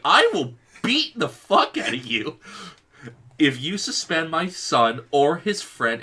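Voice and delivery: hammed-up mama-bear fury; furious mom. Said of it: "Mom is just like".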